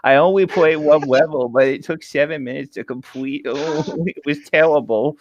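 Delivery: high cutesy uwu voice, giggling; breathy cutesy giggly. Acted. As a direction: read it cute and girly, giggling. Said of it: "I have a short line. I'm only doing this once".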